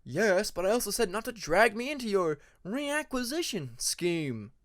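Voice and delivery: mild weary objection; arguing. Acted. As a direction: push back, tired of it. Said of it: "Alligator argued".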